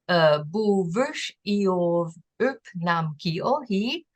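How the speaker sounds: "bu vush iov up nam ki, o, he" read slowly, each word apart; slow Aui sentence. Shown as a demonstration. Teacher reading a full Aui sentence aloud before translating it. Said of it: "You hide behind a large tree".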